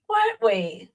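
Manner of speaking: jumps up high into a mock squeak; squeaky teasing repeat. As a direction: poke fun at him in a high squeal.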